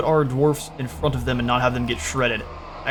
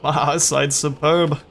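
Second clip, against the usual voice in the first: slow, drawn-out mimicked Scottish accent; attempted Scottish accent; 2 semitones higher, 3 dB louder, slower than usual. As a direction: have a rough go at a Scottish accent. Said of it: "can't say that one with a Scottish accent".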